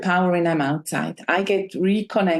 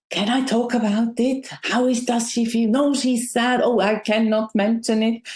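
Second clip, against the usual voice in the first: shocked, hesitant friend; 3 semitones higher than usual. Retold or imitated. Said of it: "in this shocked, freezing, like".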